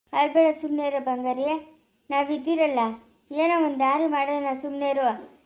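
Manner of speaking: tender reassurance; consoling. Acted. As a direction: gently hush someone who is crying. Consoling a crying woman.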